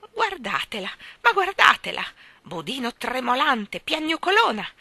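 high, loud mocking shriek. Mother shrieks insults at her weeping daughter. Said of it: "strillò".

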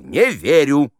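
high, loud theatrical verdict; imperious quoted outcry; Stanislavsky's cry. Acted. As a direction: halt the rehearsal with an emphatic НЕ ВЕРЮ. Director quotes Stanislavsky again.

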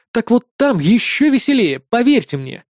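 ordinary delivery

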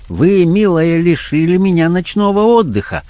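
high-pitched voice of a condescending blackmailer; blackmailer character voice. Acted. Blackmailer chiding his late night visitor, condescendingly. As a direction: play the blackmailer, high and patronising.

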